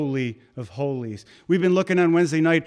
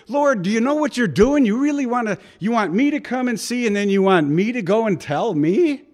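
higher, pleading questions to the Lord; incredulous believer; 5 semitones higher, 3 dB louder than usual. Retold or imitated. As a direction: ask God in disbelief, pitched up. Voicing congregant questioning the Lord.

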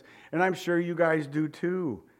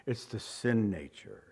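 softer answer; 6 semitones lower, 7 dB quieter than usual. Shown as a demonstration. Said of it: "You know what he's talking about?".

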